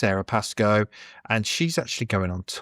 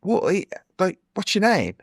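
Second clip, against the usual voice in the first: imitating the comedian; 9 semitones higher than usual. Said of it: "And then he's like".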